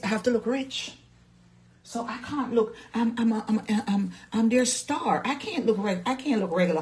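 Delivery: high, haughty diva voice; diva star. Acted. To her live viewers, a high haughty diva boast. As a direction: preen like a Facebook movie star.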